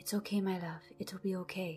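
hushed whisper. Game master voicing a character heard from the top of the stairs, whispering. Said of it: "you can hear Gabriel whispering".

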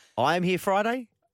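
rising intonation at the end of Friday. Repeating a statement as a question, with rising pitch on friday. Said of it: "I'm asking, that's a question. Couldn't you tell the inflection?".

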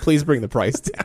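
put-on crying, tearful begging tone. Acting out haggling over a price: mock crying plea. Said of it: "You start crying".

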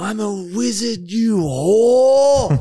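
very high, loud scream, drawn-out "whore". Retelling how Marty wielded a huge branch, imitating Marty screaming. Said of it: "and he just screams".

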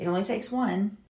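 muttering under breath. Retelling what was said as he walked away: imitating muttering under breath. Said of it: "under my breath".

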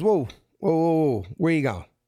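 put-on slow South Philly accent. Retelling a security guard stopping him at the front, south philly accent. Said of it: "I already hear the South Philly accent".

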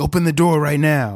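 possessed, demon-like, demonic voice. Retelling a video of a stranger at a door, imitating a man turned demon. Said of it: "then he just turned into a demon".

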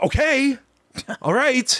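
very high-pitched, affronted, indignant huff, acted out. Retelling a bus passenger's reply to the driver: imitating an indignant man. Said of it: "Like, all indignant".

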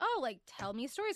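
ordinary talk, nothing marked

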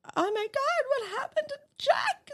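high-pitched, loud, tearful sobbing. Retelling asking dad what happened to jack, imitating own past crying. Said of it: "and I'm crying".

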